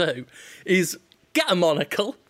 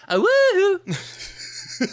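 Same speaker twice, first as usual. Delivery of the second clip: stretched high mock cheer; high woohoo; much slower than usual. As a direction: squeal it out, drawn long. Mocking cheer after pun.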